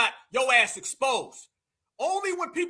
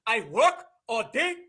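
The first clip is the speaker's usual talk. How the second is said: mocking Nigerian accent, bossy and demanding, a bit higher; hammed-up impression of a domineering Nigerian husband ordering food; mock Nigerian abusive husband; 4 semitones higher than usual. Host mocking a podcaster as a Nigerian husband, demanding Nigerian accent. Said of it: "he's going full Nigerian abusive husband".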